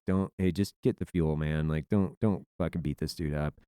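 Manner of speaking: low, soft, unbothered team leader; nonchalant. Retold or imitated. Team leader holding back his angry gunner, nonchalant. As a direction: imitate a big guy casually calling someone off. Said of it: "like, nonchalant".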